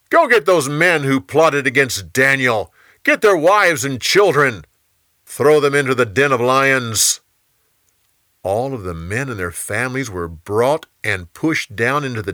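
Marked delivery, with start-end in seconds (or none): 0.1-7.2 raised voice ordering the guards; royal command. Acted. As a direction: give the order firmly and loudly.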